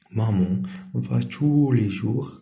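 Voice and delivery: very slow, word by word, like a dictation; slow dictation reading. Shown as a demonstration. Teacher reading a French example to pupils, slow dictation. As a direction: read it so pupils can copy along.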